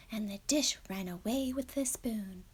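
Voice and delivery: whispered repeat of the last line. Shown as a demonstration. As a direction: breathe the line in a hush.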